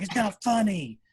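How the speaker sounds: imitating sulky son. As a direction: pout it like an upset boy. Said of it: "He's like".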